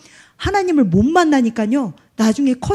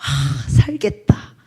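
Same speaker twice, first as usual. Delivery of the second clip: retold relieved cry; slower than usual. Dying patient's soul revives at hymns of praise, retold relieved cry. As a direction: imitate a drawn-out groan of relief rising into a cry. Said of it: "소리쳐요".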